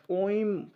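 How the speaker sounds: ओइम with the opening O held long; prolonged pluta vowel. Shown as a demonstration. Teacher showing students how it is read, ओइम held long. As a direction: draw out the O of ओइम into its closing m. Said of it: "पढ़ा ऐसे जाता है".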